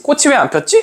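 high-pitched acted wondering; puzzled butterfly. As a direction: wonder aloud where the flowers are. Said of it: "하고 얘 내려가 본 거야".

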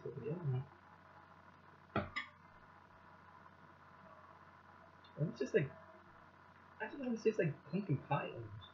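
chewing between words; talking while chewing. Real, not acted. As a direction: mouth partly full of food. Seen 1: Spoonful taken at -5s; lips pressed, cheeks working between words.

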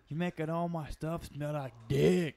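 hammed-up ogre complaint with a loud last word; Shrek. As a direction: imitate a cartoon ogre grumbling at his sidekick. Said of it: "where Shrek, uh, is talking to Donkey".

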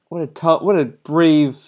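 sarcastic. Real, not acted. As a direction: lay the fake admiration on thick. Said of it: "I'm being sarcastic".

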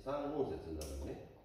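三音節 said slowly, stress on 音; teacher stressing 三音節 slowly; explaining syllables. Shown as a demonstration.

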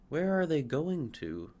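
a hint of an anxious young tree; curious fir. Fir asking about the felled trees. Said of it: "asked the fir".

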